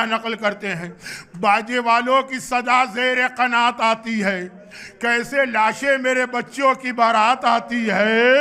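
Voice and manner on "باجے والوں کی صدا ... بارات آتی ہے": recited couplet. Acted. Preacher reciting Mir Anis to the mourners, lamenting recitation.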